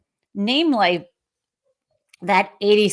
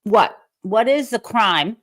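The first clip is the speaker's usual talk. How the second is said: incredulous. Real, not acted. Host rebuts Gabbard, incredulous.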